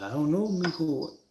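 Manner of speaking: a hint of an old grandpa, slow and puzzled; lightly voiced grandpa, unsure and slow. Grandson asks grandpa what happened, lightly voiced puzzled grandpa.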